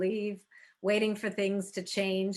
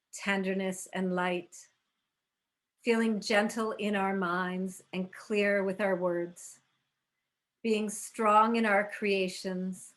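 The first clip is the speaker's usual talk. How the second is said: even, meditative prayer delivery; opening invocation. Real, not acted. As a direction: read it as a calm, unhurried intention. Reads the opening intention.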